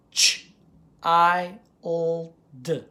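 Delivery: put-on CHILD in four separate sounds, ch, i, l, d; tapped out. Shown as a demonstration. Teacher tapping the word child, each sound apart. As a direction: say each sound of CHILD singly, pausing between. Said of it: "first I would tap it".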